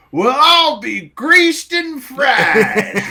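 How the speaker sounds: slow, high, drawn-out hick exclamation; old redneck man. Retold or imitated. Old man marveling at the circus tent, slow and high. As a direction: stretch it out like an amazed old country man. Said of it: "and he goes".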